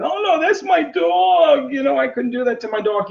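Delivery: high mocking whine; whiny mock dog owner.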